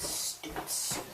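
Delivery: soft, slow whispered complaint; whispered grumble. Acted. Critic sulking at Susan, whispered. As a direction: grumble under your breath.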